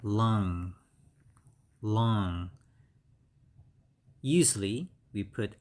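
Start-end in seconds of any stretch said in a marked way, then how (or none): 0.0-2.5 LUNG said as one drawn-out, clear syllable; model pronunciation. Shown as a demonstration. Teacher naming the organ for learners, careful model pronunciation. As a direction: model the word LUNG for learners, stressed and evenly spaced. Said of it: "we call this one".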